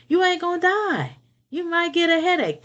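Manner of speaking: amused high-pitched repeat; laughing. Real, not acted.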